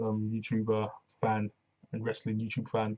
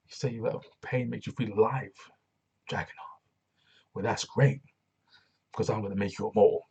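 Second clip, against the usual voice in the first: menacing promo reread. Retold or imitated. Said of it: "that line was fire".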